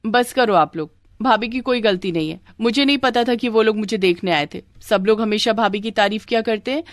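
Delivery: lightly voiced guilty young woman; confessing young sister-in-law. Sandhya admitting her trick to the family, mildly contrite. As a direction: own up with a touch of pleading.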